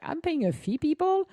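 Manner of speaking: hammed-up indignation, peaking high on people; exasperated rant. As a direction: playfully complain about the unfair phone fees. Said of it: "I'm like".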